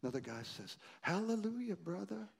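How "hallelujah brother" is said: mock praise. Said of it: "teasing me, making fun of me".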